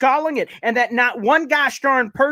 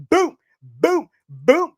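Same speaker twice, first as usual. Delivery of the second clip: excited; 4 semitones higher, much slower than usual. Real, not acted. Excited play call.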